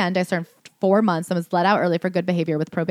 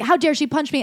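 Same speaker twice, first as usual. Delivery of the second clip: mock indignation; 7 semitones higher than usual. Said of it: "he's like".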